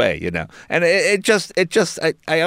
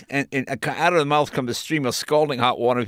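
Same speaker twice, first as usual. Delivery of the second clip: usual speaking voice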